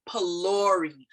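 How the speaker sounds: "palori" starting with a P, never an F; P sound. Shown as a demonstration. Teacher showing learners the word, "palori" with a P sound. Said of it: "We pronounce it like a P sound".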